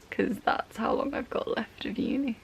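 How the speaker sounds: breathy whispered aside; whispering. Real, not acted. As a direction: whisper it with a weary laugh. Whispered aside about uni.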